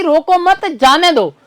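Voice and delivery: slowly group it as रोको मत, then जाने दो; pause after मत. Shown as a demonstration. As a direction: join रोको to मत and set जाने दो apart. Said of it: "इसका अर्थ हो गया कि".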